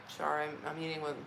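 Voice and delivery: talking fast through a mouthful; apologising with fruit in mouth; mouth full. Real, not acted. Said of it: "I got fruit in my mouth".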